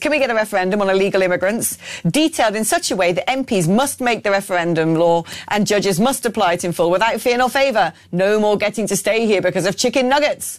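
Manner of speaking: ordinary delivery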